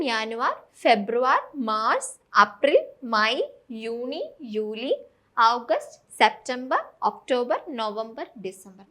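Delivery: "ജാനുവരി, ഫെബ്രുവരി" spaced out one by one; pronouncing the months. Shown as a demonstration. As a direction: read the months slowly as a teacher's drill, "യൂണി" drawn out. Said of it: "ഇതൊന്നുകൂടെ പറയാം". (മാസങ്ങൾ "ജാനുവരി" മുതൽ "ഡിസംബർ" വരെ പതുക്കെ വ്യക്തമായി)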